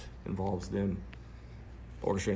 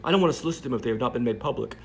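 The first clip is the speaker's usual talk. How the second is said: mock British accent; 3 semitones higher, 7 dB louder, faster than usual. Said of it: "I'm doing her British accent".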